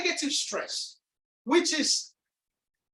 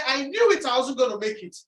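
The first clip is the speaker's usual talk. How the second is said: mock self-reproach; 4 dB louder, faster than usual. Coach voicing someone who has fallen, mock self-reproach. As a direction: lightly act out someone blaming themselves. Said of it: "When you fall and you say".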